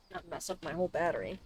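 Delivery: ordinary talk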